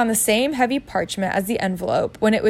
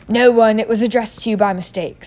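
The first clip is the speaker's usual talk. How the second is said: loud first words, then dismissive; short, curt; 5 dB louder than usual. Acted. Uncle answers the boy about the letter, curtly. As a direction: brush the question off firmly. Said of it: "said Uncle Vernon shortly".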